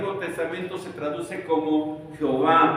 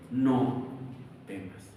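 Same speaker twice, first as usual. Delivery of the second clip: fading whisper; 6 semitones lower, 6 dB quieter, much slower than usual. Acted. Voice heard in the storm.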